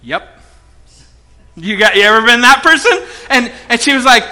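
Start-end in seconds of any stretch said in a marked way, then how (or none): 0.0-0.4 low, soft, curt reply; imitating quiet, held-in anger; violent silence. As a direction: shut the caller out with one word. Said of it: "with this violent silence".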